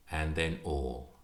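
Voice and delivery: fading close. Acted. Poem's final fading line.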